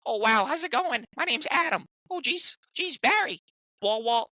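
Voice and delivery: high, strained nerdy Adam Goldberg voice; frantic, high fanboy Adam Goldberg voice; Adam Goldberg impression. Shown as a demonstration. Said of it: "burst out with an Adam Goldberg impression".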